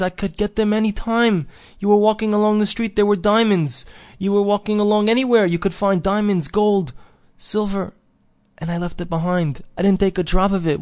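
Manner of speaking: high-pitched wail of regret, acted; tearful lament. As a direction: lament lost riches like a man crying. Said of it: "And he starts to cry".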